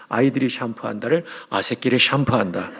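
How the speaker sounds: lightly voiced Pyongyang dialect; loud hint of Pyongyang dialect; Pyongyang accent. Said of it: "평양 사투리로".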